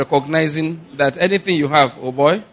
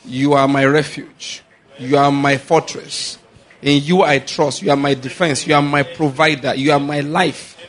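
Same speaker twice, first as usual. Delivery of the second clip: prayer declaration. Shown as a demonstration. Preacher leads the church in a thanksgiving prayer. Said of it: "So just thank him. Say".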